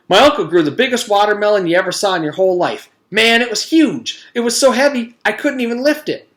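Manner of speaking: put-on high, loud, fast kid bragging; excited bragging. A narrator's reading. Mac brags to the class, high and fast. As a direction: gush about the giant watermelon.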